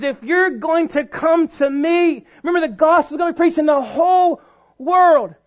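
loud, emphatic preacher's delivery; impassioned preaching. Real, not acted. Preacher urging the congregation to full surrender, impassioned. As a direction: drive it home with stretched key words.

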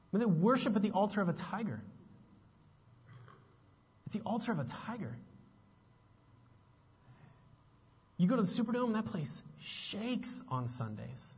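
high-pitched, urgent sermon delivery; preacher in full flow; impassioned preaching. Real, not acted. Preaches with rising force.

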